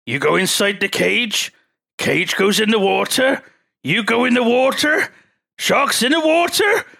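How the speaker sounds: my own character. Pretend. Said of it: "make it into my own character".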